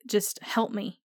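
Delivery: put-on soft, hushed plea like a lost child; imitating Jamie's quiet broken plea; lost little boy. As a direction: say it small and helpless. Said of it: "an innocent little boy".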